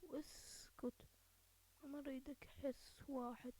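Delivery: hushed unvoiced whisper. Real, not acted. Whispering to himself while sneaking up on a player, hushed. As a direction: breathe it so nobody hears.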